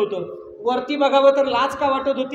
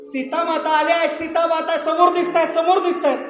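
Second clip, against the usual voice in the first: higher and louder, eager news; excited announcement; 5 semitones higher, 6 dB louder than usual. Acted. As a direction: blurt it out with excitement. Lakshman announcing Sita seen.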